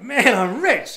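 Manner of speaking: loud, high, jubilant exclamation; acting out giddy joy; retold elation. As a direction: crow over a sudden fortune. Retells joy at the money.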